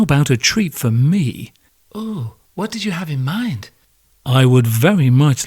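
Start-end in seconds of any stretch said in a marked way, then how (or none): 1.9-3.7 wife voice. Acted. Wife voiced in couple sketch.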